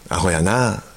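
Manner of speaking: light Kansai-dialect teasing. Shown as a demonstration. Glossing the Tosa word in Kansai dialect. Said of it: "関西弁で".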